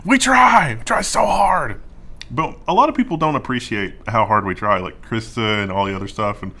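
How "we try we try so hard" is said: mock proud. Mock self-praise of IT team.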